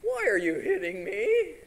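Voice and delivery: very high, slow donkey voice; talking donkey voice. Acted. Beaten donkey asking its master, comic high donkey voice. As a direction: whine it way up high like a cartoon donkey. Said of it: "But the donkey says".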